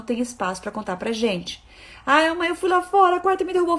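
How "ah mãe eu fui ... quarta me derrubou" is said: higher, small daughter's complaining voice; whiny little girl. Retold or imitated. Little daughter telling mom the dog knocked her down, higher and whiny. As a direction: play the toddler whining about the dog.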